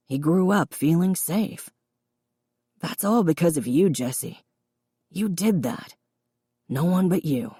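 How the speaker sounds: lightly voiced father, quietly reassuring his daughter; quiet, reedy. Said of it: "his reedy voice quiet".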